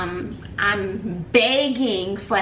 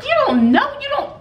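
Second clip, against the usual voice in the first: quoted disbelief; 13 semitones higher, 3 dB louder than usual. Retold or imitated. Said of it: "I'm like".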